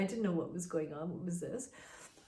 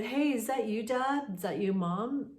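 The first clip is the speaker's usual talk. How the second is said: calling out; 4 semitones higher than usual. Retold or imitated. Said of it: "So we'd call out".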